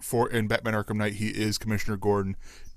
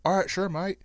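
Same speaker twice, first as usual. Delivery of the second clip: a hammed-up bad Australian accent, higher; lightly voiced Hugh Jackman, bad Australian accent; horrible Australian accent; 8 semitones higher than usual. Host doing Hugh Jackman agreeing to a cameo, bad Australian accent. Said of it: "my horrible Australian accent".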